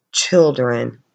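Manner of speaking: ordinary delivery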